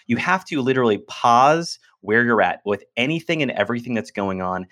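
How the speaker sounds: normal talking voice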